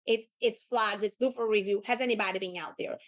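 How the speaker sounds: assumptive. Shown as a demonstration. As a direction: tell them, don't ask. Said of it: "You're telling them".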